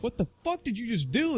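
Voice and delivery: mock outrage. Retold reaction to tendon hit.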